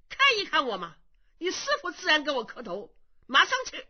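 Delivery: a hint of a cranky old master, gruff curses; blustering old monk. Impostor Kong Xiu scolding the two young monks, blustering. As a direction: scold like an offended elder.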